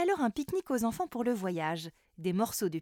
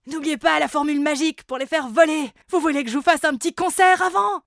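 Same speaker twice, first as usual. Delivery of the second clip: high, loud eager voice; eager Chichi; 6 semitones higher, 11 dB louder than usual. Acted. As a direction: offer a concert eagerly. Chichi offers a concert.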